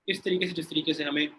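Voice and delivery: cutting-out call audio; bad connection. Real, not acted. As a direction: voice breaking up online. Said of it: "آپ کی آواز کٹ رہی ہے".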